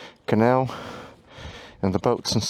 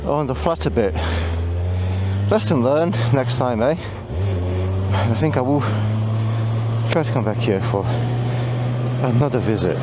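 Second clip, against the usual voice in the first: talking through heavy breathing; breathing hard between phrases. Real, not acted. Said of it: "Sorry about the heavy breathing".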